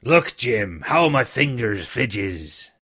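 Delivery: put-on a trembling old seaman begging; pleading. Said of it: "in the pleading tone".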